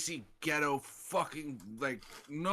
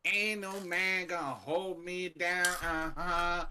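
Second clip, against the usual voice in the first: lightly voiced sassy woman, slow and defiant; a hint of a defiant diva brushing him off; mock sassy woman; 4 semitones higher, slower than usual. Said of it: "woman with such bad attitude".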